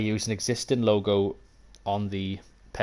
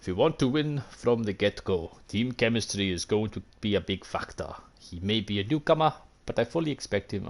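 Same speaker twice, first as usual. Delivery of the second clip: lightly voiced football coach giving advice; slightly put-on voice of a measured team adviser; Zico impression. Streamer imitating an adviser on team chemistry, lightly put-on voice. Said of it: "Trying to do my Zico impression".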